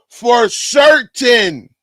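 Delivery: slow, drawn-out shout of certain; gloating shout at chat; emphatic slow shout. Real, not acted. Streamer gloats after winning bet.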